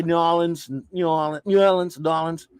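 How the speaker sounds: "New Orleans" slurred into "Nyoo-AW-linz"; mispronounced New Orleans. Shown as a demonstration. Host mimics dummies who say it wrong, "New Orleans" as "N'AW-linz". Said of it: "they don't say it right".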